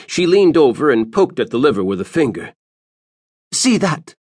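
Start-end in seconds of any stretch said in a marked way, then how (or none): 3.5-4.1 put-on high, thin old woman's voice; old seer. Old seer pointing Moms to the liver. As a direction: croak it like an ancient seer.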